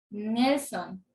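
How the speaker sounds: NEL-son, weight on the first syllable; stress on NEL. Shown as a demonstration. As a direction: lean on the NEL of Nelson. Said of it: "intensidad de la pronunciación".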